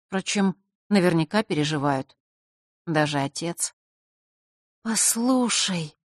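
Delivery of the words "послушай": drawn out slowly and softly. Acted. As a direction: say it slowly, hesitantly. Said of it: "медленно произнесла Василиса".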